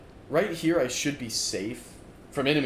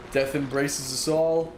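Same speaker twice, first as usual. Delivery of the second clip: dramatic dark recital. Acted. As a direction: intone it like a doomed epic narrator. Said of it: "'Cause that sounds sick".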